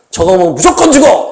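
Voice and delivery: the way it should be said, firm; firm warning. Shown as a demonstration. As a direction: say it with no wiggle room. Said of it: "이렇게 딱 해야 되는데".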